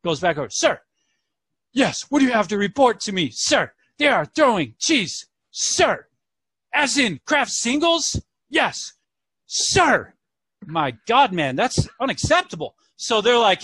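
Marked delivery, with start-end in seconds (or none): 0.5-10.1 squeaky mock officers. Officers' exchange acted in story.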